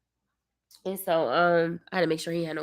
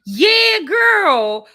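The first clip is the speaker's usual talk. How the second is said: loud high greeting shout; excited shout; 10 semitones higher, 11 dB louder than usual. Real, not acted. Greeting a viewer who joined the live, excited shout. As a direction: call out to a viewer joining.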